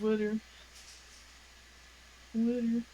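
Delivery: Jersey "Water" as "wooder", a d for the t; New Jersey "Water", round vowel, tapped middle; the Jersey way of saying "Water"; Jersey accent. Shown as a demonstration. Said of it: "biggest Jersey accent thing is when I say water".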